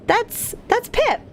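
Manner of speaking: shy. Acted. Introducing dog to demon lady.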